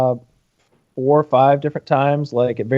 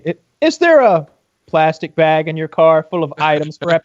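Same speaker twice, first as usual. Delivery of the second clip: leading question from an investigator; a hint of TV interrogator; Chris Hansen. Host hinting he knows what's in the car, mild interrogation. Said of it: "You gotta go Chris Hansen".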